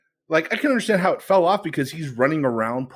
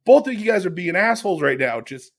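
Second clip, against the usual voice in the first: higher, fast exasperated telling-off; exasperated scolding; 5 semitones higher, 3 dB louder, faster than usual. Retold or imitated. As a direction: snap at both of them, higher and fast. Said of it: "I was like".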